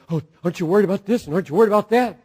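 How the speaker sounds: hurried lightly mocking anxious voice; mock nervous fretting. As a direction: imitate a fussing worrier in one breath. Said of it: "Somebody gets all nervous".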